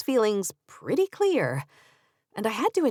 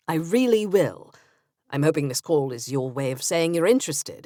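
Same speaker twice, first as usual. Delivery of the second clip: put-on Benjamin, English accent; 2 semitones lower than usual. Narrator voicing Benjamin on phone.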